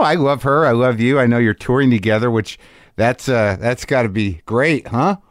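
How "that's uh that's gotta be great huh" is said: slow, dry sarcasm; sarcastic. Real, not acted. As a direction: say it like you don't mean it. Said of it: "it feels sarcastic when you say it like that".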